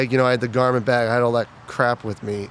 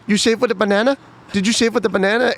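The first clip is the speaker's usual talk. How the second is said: high, loud mocking shout; mock drill instructor yell; 10 semitones higher, 5 dB louder than usual. Drill instructor mocking a recruit's shave, high yell. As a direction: scream it up at a tall recruit. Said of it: "she looks at me and she says".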